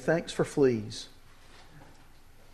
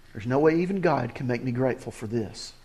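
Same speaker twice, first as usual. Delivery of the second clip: lower, softer private complaint; inner grumble; 4 semitones lower, 5 dB quieter, faster than usual. Retold or imitated. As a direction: mutter it as your own doubt. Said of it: "do you ever feel that way".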